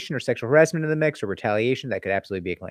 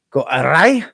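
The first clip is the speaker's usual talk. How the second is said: put-on louder Scottish accent repeat; 5 semitones higher, 7 dB louder, slower than usual. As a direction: punch "Go awry" again in a hammed-up Scottish brogue. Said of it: "my Scottish accent is not good".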